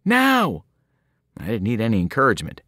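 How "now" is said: high, urgent shout; urgent yell. A narrator's reading. Annabeth ordering Percy off the bus, high urgent yell. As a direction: order him out fast. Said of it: "Annabeth yelled at me".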